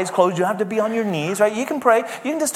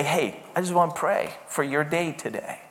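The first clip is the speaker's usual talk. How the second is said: much softer, intimate voice; gentle offer; 3 semitones lower, 9 dB quieter than usual. Acted. Husband taking his wife's hand to pray, softly tender. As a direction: drop your volume, as if to one person.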